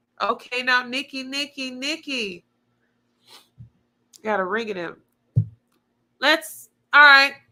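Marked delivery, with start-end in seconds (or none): 6.2-7.3 loud, shouty, carried-away hyped-up calling. A speaker gets carried away and gets loud. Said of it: "Sorry, I got loud".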